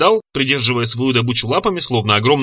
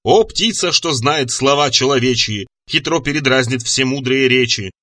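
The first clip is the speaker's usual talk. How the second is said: drawn-out incantation in verse; declaiming. A narrator's reading. Magician conjures a parrot, declaiming his rhyme. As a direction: recite it grandly like a spell. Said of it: "раскинув руки и декламируя".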